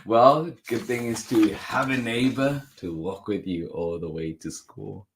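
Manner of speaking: slowing, softening storybook close; story narration. A narrator's reading. Reader wishing luck meeting new classmates, gentle storytelling. Closes the picture book reading.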